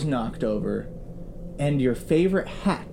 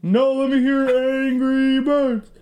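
passenger voice; 8 semitones higher, 5 dB louder than usual. Acted. Passenger tells the fan to get going, high and loud. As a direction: hurry the others along.

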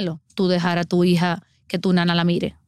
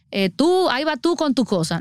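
lightly mocking, higher-pitched imitation; dismissive mimicry; 5 semitones higher than usual. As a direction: imitate someone brushing off a worrier. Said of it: "que te digan paranoico".

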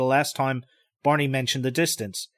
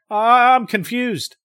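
confused; 9 semitones higher, 6 dB louder, slower than usual. Acted. Confused outburst.

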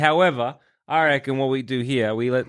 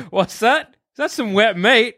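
higher, lightly voiced dog wondering aloud; curious dog; 5 semitones higher, 4 dB louder than usual. Dog spotting wet meat, lightly voiced and higher. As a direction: ask it as a food-obsessed dog.

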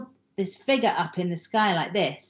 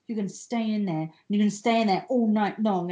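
telling off; 3 semitones higher than usual. Retold or imitated. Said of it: "like I was telling him off".

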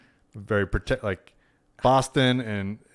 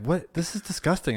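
imitating disgusted old woman; 9 semitones higher than usual. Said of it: "she was just like".

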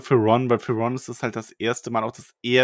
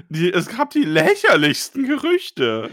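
higher, louder gossiping voice; excited gossip; 7 semitones higher, 5 dB louder than usual. Retold or imitated. Classmate eagerly spreading the rumour, excited. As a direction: spill the rumour with glee. Acting a character announcing rumours.

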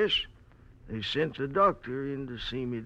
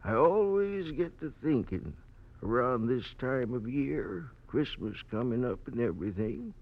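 put-on very old man. Old man recalls his thirty years.

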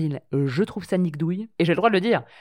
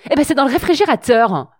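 prim, precise TV host voice; Marc-Olivier Fogiel voice; 7 semitones higher, 4 dB louder than usual. Retold or imitated. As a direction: talk like a polished TV presenter. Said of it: "j'ai pris la voix de Marc-Olivier Fogiel".

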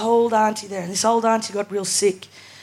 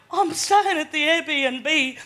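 deadpan reply; 5 semitones higher, much slower than usual. Retold or imitated. Her deadpan reply to the guy.

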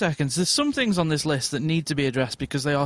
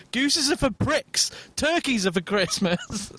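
edgy retort; 5 semitones higher, slower than usual. Retold or imitated. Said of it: "got really edgy about it and said".

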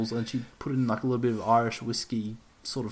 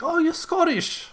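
very high-pitched, drawn-out mock surprise; excited customer quote; slower than usual. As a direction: imitate someone delightedly taken in, high and slow. Retold excited customer reaction.

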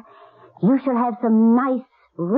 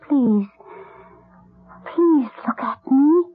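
tearful pleading. Acted. Pleads with boy to live.

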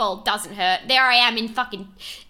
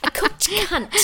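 laughed out higher; words broken by laughter, pitched up; laughing; 11 semitones higher, slower than usual. Real, not acted. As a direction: giggle through the words. Laughing at joke.

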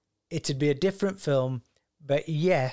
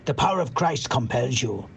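put-on European-American accent; 2 semitones lower than usual. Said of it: "sounds European with a bit of American".

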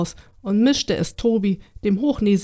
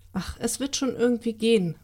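confident; 3 dB quieter than usual. Acted. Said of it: "meinte Maria zuversichtlich".

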